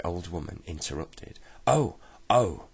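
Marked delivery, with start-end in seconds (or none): 1.7-2.7 high, loud outraged exclamation; shocked cry. Acted. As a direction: cry out in horrified surprise. Old woman hears children misbehaving.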